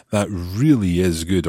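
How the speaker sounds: "really" pushed up and lengthened; stress on really. Shown as a demonstration. Teacher translates the emphasis, stressing really. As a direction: lean on "really". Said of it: "used for emphasis".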